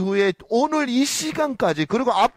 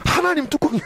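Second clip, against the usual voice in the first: slip of tongue; 7 semitones higher than usual. Real, not acted.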